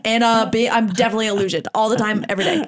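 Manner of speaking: giggly mock self-report; laughing confession. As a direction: tick off your own faults, laughing. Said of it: "I was like".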